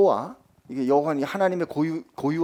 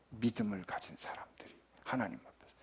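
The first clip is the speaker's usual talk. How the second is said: whisper; 7 semitones lower, 15 dB quieter than usual. Acted. Preacher drops to a hush.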